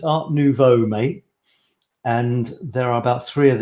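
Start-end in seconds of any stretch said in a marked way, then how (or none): 0.0-1.2 Art Nouveau with plain English vowels; English accent. Shown as a demonstration. Vlogger settles on the English version, English accent. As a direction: say it the English way, no French r. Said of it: "or a crappy English one".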